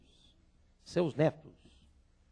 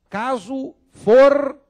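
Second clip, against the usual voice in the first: fortuito called out much higher and louder, slow; emphatic model; 9 semitones higher, 12 dB louder than usual. Shown as a demonstration. Teacher models caso fortuito for the camera. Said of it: "que o caso fortuito".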